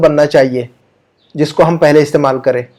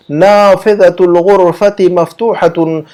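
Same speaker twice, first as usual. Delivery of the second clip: नाफिदतुल गुरफती मफ्तूहतुन spoken slowly and deliberately; slow model Arabic; slower than usual. Shown as a demonstration. Teacher repeating the Arabic sentence slowly. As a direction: read it out slowly once more. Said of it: "उसकी अरबी यूं बनेगी".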